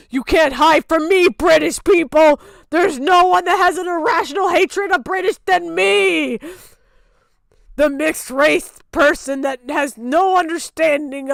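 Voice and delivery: loud hammed-up accusation; mock rant. Mocking a British friend with a loud fake rant. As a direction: rant like a cartoon villain.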